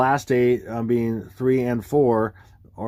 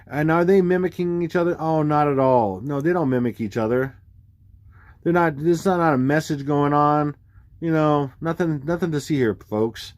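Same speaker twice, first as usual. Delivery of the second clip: sarcastic denial; 3 semitones higher than usual. Acted. Sarcastic denial of obvious pattern.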